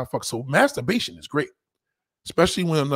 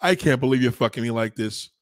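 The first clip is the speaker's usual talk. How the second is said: mock moaning woman; 3 dB louder than usual. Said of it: "She go".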